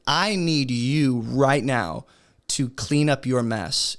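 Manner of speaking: slow, firm, serious parent's warning; a stern parent insisting right now; urgent parent. Retold or imitated. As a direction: lay down the law to the kids, slowly. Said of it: "maybe with more urgency".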